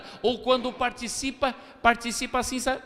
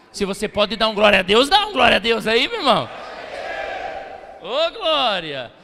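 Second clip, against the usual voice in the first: loud rising call for praise; rally the church, loud and lifted; preacher's call; 5 dB louder than usual. Real, not acted. Pastor urging the congregation to give a glory to God.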